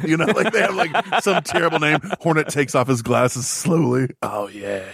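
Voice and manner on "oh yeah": cool-guy drawl. Pretend. Hornet removing glasses slowly.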